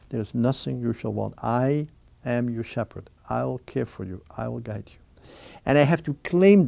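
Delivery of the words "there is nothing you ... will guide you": soft, reassuring, fading quieter; gently reassure, sinking softer with each promise; voice of truth. Acted. God's voice of truth comforting one in solitude, soft and reassuring. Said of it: "the voice of truth that says".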